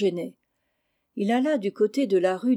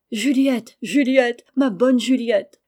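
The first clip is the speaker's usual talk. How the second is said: louder, joyful calling out; excited cry; 2 semitones higher, 6 dB louder, slower than usual. A narrator's reading. Charles calls to Juliette as he comes home, crying out. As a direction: cry out the name with eager affection. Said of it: "s'écria Charles".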